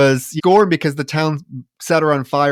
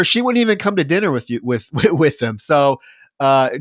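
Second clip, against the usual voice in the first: ordinary talk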